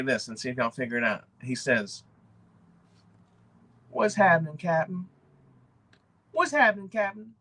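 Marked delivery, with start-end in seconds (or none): 3.9-7.3 lightly voiced, higher upbeat greeting; a friendly YouTuber hailing his viewers, a little higher; C B Hunts impression. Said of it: "That may not have been a great impression".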